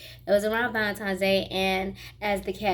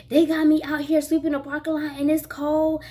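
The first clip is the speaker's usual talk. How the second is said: retold angry complaint; 5 semitones higher, 3 dB louder than usual. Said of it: "And I was like".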